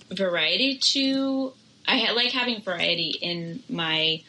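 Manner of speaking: talking through a burp; burping the words. Real, not acted. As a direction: hold back a small burp mid-word. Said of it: "this kombucha is making me burp".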